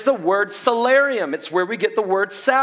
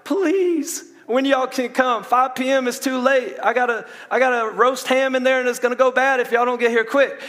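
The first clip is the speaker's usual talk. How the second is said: high, pleading voice, much higher; panicked caller; 6 semitones higher than usual. Retold or imitated. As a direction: beg the power company to hurry before the ham spoils. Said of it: "You were like".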